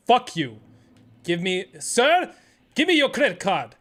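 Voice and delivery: a hint of a curt rental clerk with an accent; brusque mock clerk demanding the card; lightly voiced clerk barking at a customer; rude clerk. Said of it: "I can't do accents".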